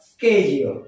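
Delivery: schedule said "ske-jul"; low schedule with "skej"; American pronunciation. Shown as a demonstration. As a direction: start schedule with a hard sk. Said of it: "American প্রনাউন্সিয়েশনকে".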